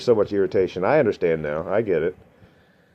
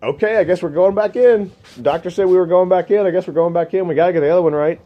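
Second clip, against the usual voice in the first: high, bewildered self-talk, pitched up; inner voice, dazed; 7 semitones higher, 3 dB louder than usual. Retold or imitated. Telling the viewers how he reacted on the table, high and dazed. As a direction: talk yourself into it, numbly resigned. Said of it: "And, like, just".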